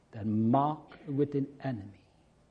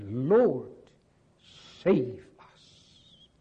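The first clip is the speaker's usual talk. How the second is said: crying out; 6 dB louder, much slower than usual. Retold or imitated. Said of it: "They cried".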